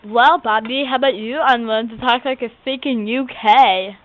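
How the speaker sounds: put-on lisping character voice; weird lisp. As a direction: talk with an odd, affected lisp. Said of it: "she talks with this weird lisp".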